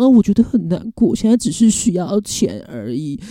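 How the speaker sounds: mock pitiful plea. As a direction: ham up a scammer playing the victim. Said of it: "就在那边装可怜". (模仿骗子装可怜的语气)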